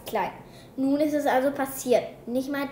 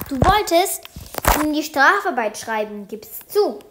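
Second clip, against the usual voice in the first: amused teasing; 2 semitones higher, 8 dB louder than usual. A narrator's reading. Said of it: "fängt Frau Scholler an zu lachen".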